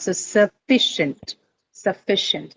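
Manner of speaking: sufficient spoken slowly with phi stressed; sə-FI-cient, stress on the second syllable. Shown as a demonstration. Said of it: "That is what is going to carry the stress".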